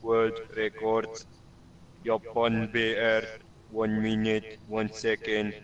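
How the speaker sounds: flat, low robotic monotone; flattened pitch. Shown as a demonstration. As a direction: read it like a robot.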